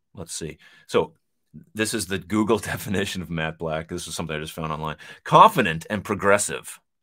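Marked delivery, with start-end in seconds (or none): 5.3-6.8 put-on radio announcer voice, loud and swooping. Reading a definition found online, put-on radio voice. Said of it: "Put on my radio voice for that one".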